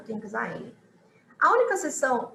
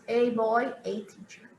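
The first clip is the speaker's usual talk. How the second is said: American "a"; slower than usual. Shown as a demonstration. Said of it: "se você quiser falar com os americanos".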